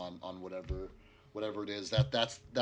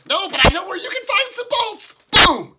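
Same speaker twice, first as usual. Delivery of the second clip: mad scientist; 21 dB louder than usual. Acted. Gnome NPC taunts and fires.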